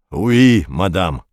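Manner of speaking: put-on clumsy French accent; terrible French accent. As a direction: ham up bad French. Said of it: "сказал Дауге с ужасным акцентом".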